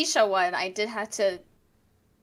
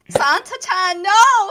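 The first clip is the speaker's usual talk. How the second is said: anime character voice; 9 semitones higher, 9 dB louder, much slower than usual. Pretend. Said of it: "anime Santa bit".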